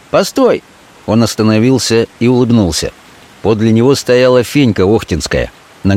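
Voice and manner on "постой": high urgent call of stop; постой sung out high. Acted. Fenka calls out to Petka.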